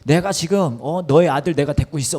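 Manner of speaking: acted threat, pushed up in pitch; mock threatening caller. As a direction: play the kidnapper cursing down the line. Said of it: "그 전화하신 분이 그러시더니".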